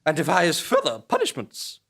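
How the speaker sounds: high, loud, slow official decree; stern official. Acted. Official announcing punishment to the prisoner, high and stern.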